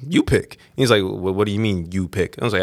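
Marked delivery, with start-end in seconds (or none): 0.1-0.6 higher-pitched, tentative handing over; unsure customer. Retold or imitated. Unsure customer to bartender, tentative and higher. 1.0-2.4 low, quiet questioning echo; puzzled bartender. Retold or imitated. Bartender questioning unsure customer, low and puzzled.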